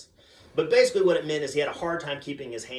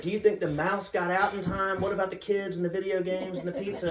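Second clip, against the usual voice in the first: put-on higher-pitched child's questions; worried little daughter; 5 semitones higher than usual. Daughter worries about the mouse, high fretful voice. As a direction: imitate a fretting child in a high voice.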